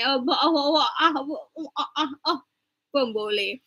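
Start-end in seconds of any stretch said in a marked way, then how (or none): 0.0-2.4 British accent. Shown as a demonstration. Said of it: "You wanna use British accent?".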